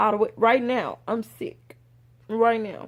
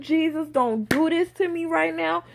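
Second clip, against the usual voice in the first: retold bawling; 3 semitones higher than usual.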